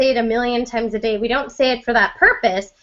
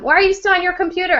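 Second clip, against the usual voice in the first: quick, higher-pitched retold scolding question; fast mock-parent demand; parental nagging; 6 semitones higher, faster than usual. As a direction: challenge a child, mildly exasperated. Parent challenging kid, retold.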